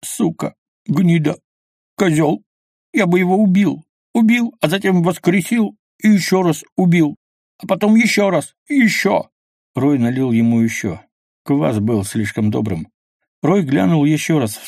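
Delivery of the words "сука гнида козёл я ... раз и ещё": higher, louder furious cursing; tearful rage. A narrator's reading. Kvas curses the dead fisherman in tearful rage, high and loud. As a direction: curse him through rage and tears.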